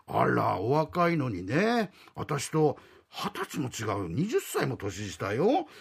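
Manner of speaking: coy landlady. Acted. Landlady coyly stresses age gap.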